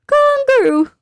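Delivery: high, excited call with a falling end; squealed kangaroo. Real, not acted. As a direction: cry out the word in delight. Excited about seeing kangaroos.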